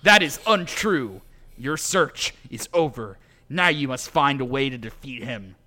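measured, vaguely pan-European delivery; a hint of pan-European accent, emphatic opening. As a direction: declare it with a loose European accent. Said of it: "vaguely pan-European".

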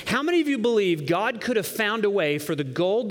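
ordinary delivery

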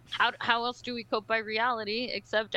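normal talking voice

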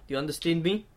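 put-on a light, shaky go at a South African accent; South African accent attempt. Mate teasing his podcast co-host in a light South African accent. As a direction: play at being South African, not quite landing it. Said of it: "Not when you speak like a Russian".

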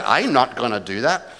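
a light, laughing attempt at a Northern Irish accent; half-joking Northern Irish impression, not very convincing. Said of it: "for my Northern Irish accent".

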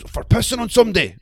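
hammed-up indignant yell; mock officer yell. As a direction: snap the reason back at him. Quoting the officer's answer.

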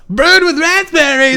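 puckered sour-mouth read; sucking on something sour. Acted. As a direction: read it like you've bitten a lemon. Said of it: "like you're sucking on something sour".

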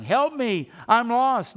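half-hearted call of a lost person; mock cry for help. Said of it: "And what is he crying?".

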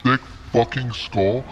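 slow, menacing aunt quote; mock furious aunt. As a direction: drag out a slow, angry threat. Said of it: "She says".

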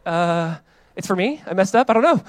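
sheepish panic. Retold or imitated. Husband caught out by his wife, rising fluster. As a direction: scramble for an excuse. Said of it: "I'm like".

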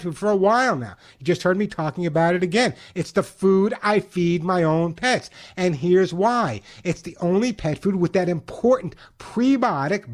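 slowed, upbeat radio ad read, leaning on key words; radio host pitching the sponsor's food to listeners. Acted. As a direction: sell the pet food like a live radio spot.

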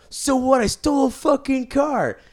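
loud, high, indignant outburst; outraged son. Acted. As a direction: blurt it like a spoiled son caught out. Son yells at father, quote.

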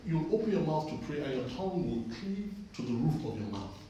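firm preacher's rebuke; rebuking the voodoo priest with authority; bold declaration. Retold or imitated. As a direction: declare it boldly at him. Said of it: "I say".

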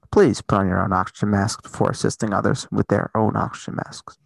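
calm cabin announcement voice; deadpan in-flight safety announcement; flight attendant. Pretend. Mock airline announcement about Eichel.

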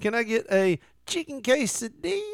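high voice, "quesadilla" said "kay-sa-dee-ya"; over-pronounced Spanish. Retold or imitated. Mocking relatives ordering, high overpronounced Spanish. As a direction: roll out "quesadilla" too Spanish. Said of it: "Like they're trying to pronounce".

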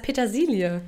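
Petersilie mit Betonung auf -silie; Petersilie, das -silie deutlich betonen; Betonung auf Ilie. Shown as a demonstration. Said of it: "Die Betonung liegt auf Ilie". (Petersilie mit klarer Betonung auf „silie“)

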